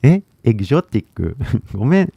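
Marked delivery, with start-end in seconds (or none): 0.4-1.4 エグゾティック in katakana-style syllables; katakana English. Real, not acted. Stumbling over an English loanword for viewers, in katakana style. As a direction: pronounce エグゾティック the Japanese katakana way. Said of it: "ごめん、カタカナ英語が。".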